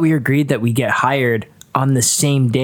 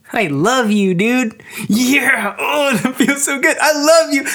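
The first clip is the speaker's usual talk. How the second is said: stoned; 8 semitones higher than usual. Acted. High, gushing love.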